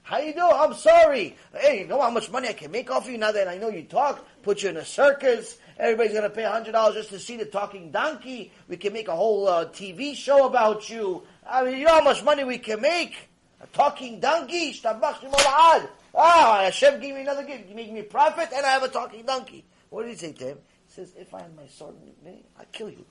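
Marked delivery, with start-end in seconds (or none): 0.0-19.6 higher, gleeful huckster pitch; thrilled he can cash in on the donkey; excited. Acted. Imagined delighted Bilam. 21.2-23.1 much softer, muttered threat; flat quiet threat. Acted. Same threat repeated flat.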